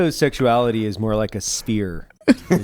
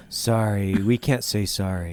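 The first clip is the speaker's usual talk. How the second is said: mock corporate rep; 5 semitones lower, 6 dB quieter, slower than usual. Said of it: "They'll be like".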